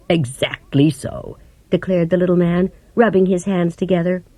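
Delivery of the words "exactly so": slow hushed whisper; whispered admission. A narrator's reading. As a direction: confess it under your breath. Wizard admitting the humbug.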